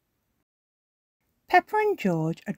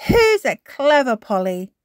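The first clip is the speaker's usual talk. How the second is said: higher, louder grandma; praising granny; 6 semitones higher, 8 dB louder than usual. A narrator's reading. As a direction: praise the parrot. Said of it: "says Granny Pig".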